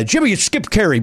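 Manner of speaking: lightly imitated legendary sportscaster voice; a hint of a play-by-play announcer; Skip Carey. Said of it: "in that great Skip Carey, uh, you know, Carey, uh, legendary voice".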